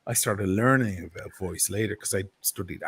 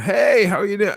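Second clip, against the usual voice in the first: much higher, louder mock greeting; 10 semitones higher, 8 dB louder than usual. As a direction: squeak out a high-pitched hello. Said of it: "your voice doesn't match".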